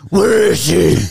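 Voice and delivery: hammed-up sitcom holler; mock shout. Friend spoofs a small-town mystery on the sitcom, mock shout.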